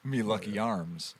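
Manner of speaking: put-on slow, lightly Irish-accented catchphrase; understated mock Irish brogue; mock Irish leprechaun. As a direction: draw it out with a hint of Irish accent. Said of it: "with a thick Irish accent".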